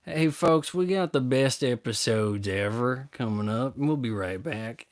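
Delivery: lightly voiced TV host hyping the next episode; a hint of a folksy host teasing the show; Doctor Phil impression. Mocking the endless talk show, light host voice. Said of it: "season twenty-two".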